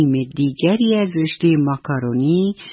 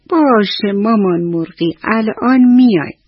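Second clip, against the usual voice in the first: higher, yawning chick voice rising up; sleepy chicks; 5 semitones higher, 4 dB louder than usual. Acted. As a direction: answer like drowsy little chicks. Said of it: "خوابالود و خمیازه کشان".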